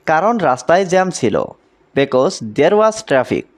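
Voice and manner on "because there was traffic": very slow, careful English; slow model sentence. Shown as a demonstration. Teacher modelling English for Bengali learners, very slow and careful. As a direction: stretch every word for learners. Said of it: "এখানে because".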